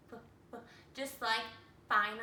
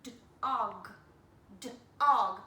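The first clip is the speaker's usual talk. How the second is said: d, og quickly, louder the second time; faster blending; 3 semitones lower, 6 dB louder than usual. Shown as a demonstration. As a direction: speed up the blend. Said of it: "If I say it a little faster".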